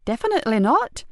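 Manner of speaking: firm denial, both words leaned on; emphatic. A narrator's reading. Wife denying a client to the police, firmly emphatic. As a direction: shut the idea down firmly. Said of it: "she said emphatically".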